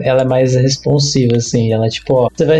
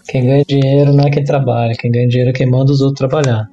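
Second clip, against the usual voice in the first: telling a dad joke. Acted. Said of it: "virar uma piada de tiozão".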